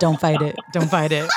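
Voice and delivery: low, coaxing murmur-like reassurance; mock soothing. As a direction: playfully talk them into giving in. Teasingly coaxes friend to surrender.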